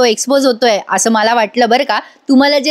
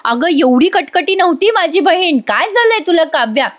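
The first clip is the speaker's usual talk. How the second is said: slightly raised, mock-scolding older sister; a hint of an angry rebuke, pitched up; retold scolding; 3 semitones higher than usual. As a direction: lightly act out an elder sister lashing out. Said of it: "Nandini बरसलीये खरी आता काव्यावर".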